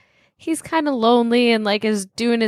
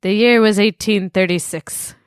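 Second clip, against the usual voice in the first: put-on old-timey narrator. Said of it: "I was doing the wrong one".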